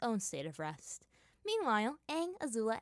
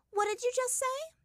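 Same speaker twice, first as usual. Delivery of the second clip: much higher, curious asking; inquisitive question; 4 dB louder than usual. A narrator's reading. Azula questioning Aang, high and curious. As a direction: probe him with the question. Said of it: "Azula asked inquisitively".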